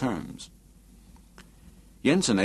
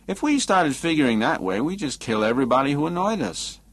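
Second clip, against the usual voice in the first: mild objection, pitched higher; lightly voiced protesting Adams; 6 semitones higher than usual. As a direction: lightly play a man reasoning back, voice lifted.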